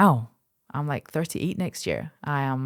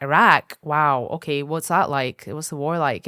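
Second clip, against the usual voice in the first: mock shock; 7 dB louder than usual. Mimicking shocked people hearing Iraq.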